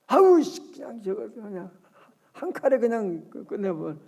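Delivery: mock fit of temper; acted exasperated anger. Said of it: "너무너무 화가 나가지고".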